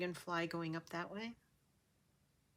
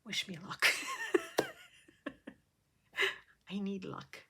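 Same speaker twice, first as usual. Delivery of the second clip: whisper. Real, not acted. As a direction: whisper it nervously. Nervous aside before stitching.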